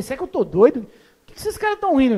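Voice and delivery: bewildered. Retold or imitated. Baffled pastor, the men laughing at him.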